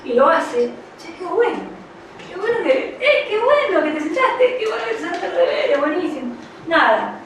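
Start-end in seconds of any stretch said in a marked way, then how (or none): 1.0-6.3 high, gushing parental praise; enthusiastic praise. Acted. Parent delighted the child sat down to do homework, enthusiastic. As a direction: cheer the child on, pitched well up.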